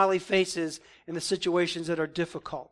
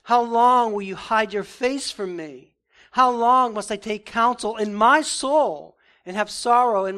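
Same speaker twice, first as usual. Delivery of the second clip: loud, pleading cry to God; impassioned lament; 2 semitones higher, 6 dB louder than usual. Acted. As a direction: call out like a man desperate for an answer. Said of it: "David says".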